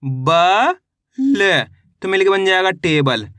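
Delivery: slow classroom sounding out, syllable by syllable; patient teacher reading to children; syllable drill. Acted. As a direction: spell each letter, then blend the word.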